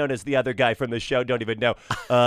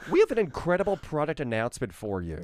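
light Tim Cook impression. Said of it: "Tim, as in Tim Cook".

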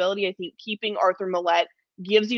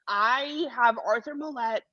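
slow, slightly catching voice; as if getting a little choked up over the name; mock-emotional announcement; jokingly emotional; 4 semitones higher than usual. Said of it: "I'm getting emotional".

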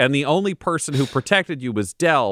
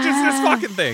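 mock exasperated listener; 11 semitones higher than usual. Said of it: "they're going like".

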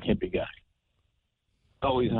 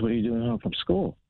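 mother's voice, pitched higher and excited; surprised mother at the screen door, excited; 14 semitones higher than usual. Retold or imitated. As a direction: imitate mom thrilled at the door. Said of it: "Like, all excited and everything".

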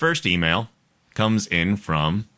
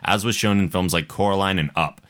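measured, lilting read-aloud; listener email read-aloud. A narrator's reading. Host reading Kendra's email to listeners, measured read-aloud. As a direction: read the letter out for an audience.

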